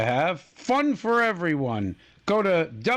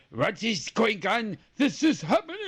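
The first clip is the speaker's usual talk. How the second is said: bad French accent; 4 semitones higher than usual. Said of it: "that was a horrible French accent".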